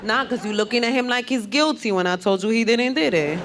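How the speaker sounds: hammed-up Puerto Rican girl accent; mock Puerto Rican accent. Lawyer arguing in the courtroom, mock Puerto Rican accent. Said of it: "if you have that kind of accent".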